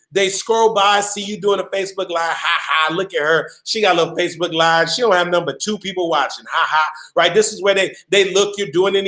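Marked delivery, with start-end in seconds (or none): 2.4-6.9 low, fast sneering mockery with a scoffing laugh; mocking hater. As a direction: sneer at her little Facebook Live, fast and low. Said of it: "they laughing at you".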